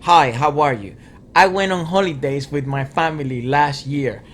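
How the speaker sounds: carefully recited classroom phrases; stiffly imitated school English; textbook English learner. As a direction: recite it like a language lesson, lightly mocked. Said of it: "all their teachings is like".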